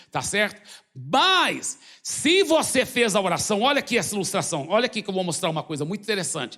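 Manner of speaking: usual speaking voice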